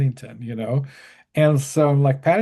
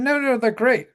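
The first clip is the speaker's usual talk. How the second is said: high, gentle English insistence; sweet insistent lady; 11 semitones higher than usual. Retold or imitated. Caroline defending the Teletubbies, lightly voiced high sweet lady. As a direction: defend them with sweet conviction.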